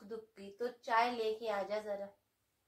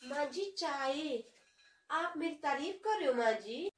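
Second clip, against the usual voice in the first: falsely polite daughter-in-law serving tea, sly underneath; sweet daughter-in-law; 2 semitones higher than usual. Acted.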